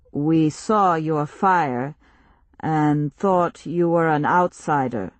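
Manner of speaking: slow, grave stranger voice; slow solemn chief. Acted. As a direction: speak slowly like a village elder. Tribal leader speaks.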